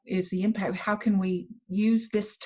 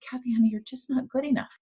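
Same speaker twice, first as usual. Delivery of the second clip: gentle, higher, a touch quick; tender letdown; 4 semitones higher, faster than usual. Retold or imitated. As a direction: break it to her kindly. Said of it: "looked at me very tenderly and said".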